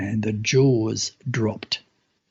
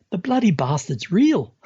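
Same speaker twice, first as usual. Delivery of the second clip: astonished exclaim; 5 semitones higher than usual. Retold or imitated. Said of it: "That's exactly what he said".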